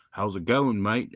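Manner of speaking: Aussie greeting in an everyday pitch; understated imitation of an Aussie; lightly voiced Australian accent. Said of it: "There was a couple of Aussies".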